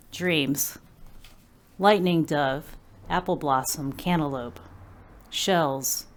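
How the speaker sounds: measured poem recital, pausing between images; poetry reading. Acted. Poet shares her poem Dreams with an audience, measured recital. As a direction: lay out each image with a falling close. Reads own poem aloud.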